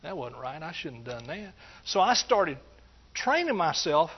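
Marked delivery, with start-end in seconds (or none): 0.0-1.5 soft, quiet mutter to himself; quiet dismay after a slip of the tongue; hushed self-scolding. Retold or imitated. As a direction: murmur it under your breath, shocked at yourself. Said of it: "I'm going".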